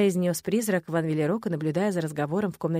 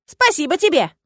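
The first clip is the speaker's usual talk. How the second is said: put-on louder, higher folksy old spirit; gruff-kind forest spirit; 6 semitones higher, 10 dB louder than usual. A narrator's reading. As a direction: grumble thanks like a pleased old woodsman.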